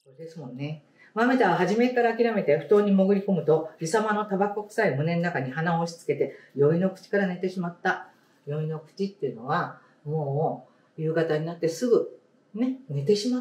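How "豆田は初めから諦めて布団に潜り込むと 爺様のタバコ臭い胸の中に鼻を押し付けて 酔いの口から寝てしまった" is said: story reading. Acted. Teacher reading a picture book to the class, storybook voice. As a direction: clear storybook read-aloud voice.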